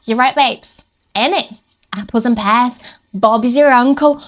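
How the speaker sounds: mock southern English slang; light London-ish English accent. Showing down-south slang in a light southern English accent. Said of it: "And down south".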